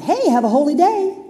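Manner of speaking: bright mock shop greeting; hammed-up friendly hello; cheery greeting. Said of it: "Try that".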